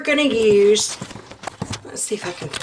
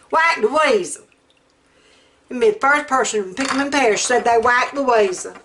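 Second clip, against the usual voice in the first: put-on movie Southern accent; faster than usual. Quoting a favorite movie to viewers, Southern accent. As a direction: quote it in a playful Southern accent. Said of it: "I can do that accent too".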